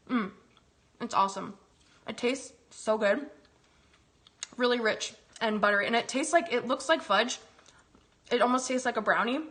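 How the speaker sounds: talking through a mouthful of muffin; chewing while speaking, mouth full. Real, not acted. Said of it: "I love talking with my mouth full".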